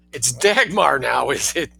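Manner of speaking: slow, sardonic snap; snapping. Acted. Son sneering back through the locked door, snapping. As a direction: cut her off with a dry retort. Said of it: "he snapped".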